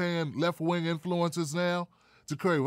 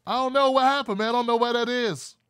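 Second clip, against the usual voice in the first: mock bewilderment; 7 semitones higher, 5 dB louder than usual. Feigns puzzlement over missing party sponsorships.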